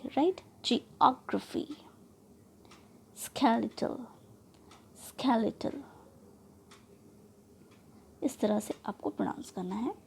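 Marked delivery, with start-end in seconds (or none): 0.6-1.7 जियोग्राफी with OG stressed; third-last syllable stressed. Shown as a demonstration. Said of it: "third वाली syllable from the end". 3.2-5.8 स्केलेटल with SKE stressed; weight on 'स्के', light ending in स्केलेटल; third-last syllable stressed. Shown as a demonstration. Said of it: "third वाली syllable from the end".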